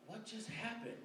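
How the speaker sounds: high, stunned "What just happened?"; bewildered. Retold or imitated. Boy left dazed after being teased, baffled. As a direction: blurt it out in disbelief. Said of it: "I was like".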